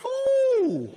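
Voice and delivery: high loud "Ooh"; mock delighted ooh. Burglar spotting the boy, high loud delighted ooh. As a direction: swoop up, gleeful. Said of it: "he'd obviously gone".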